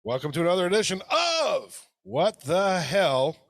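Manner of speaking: leaned-on "of" in the welcome; stress on of. Real, not acted. Host's intro line with odd weight on "of", teased by brother. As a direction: hit "of" hard in the intro. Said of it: "why'd you put so much emphasis on the of".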